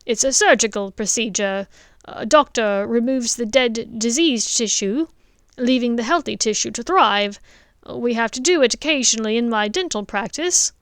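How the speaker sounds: father asks the headmaster eagerly; eager dentist. Acted. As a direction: push forward with an eager question. Richard explains procedure.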